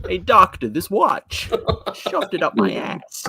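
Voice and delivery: silly comic penguin line; mock Frobisher. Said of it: "talking like this".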